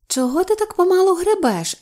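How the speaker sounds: high-pitched nagging reproach; reproachful. A narrator's reading. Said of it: "дорікнула Любонька".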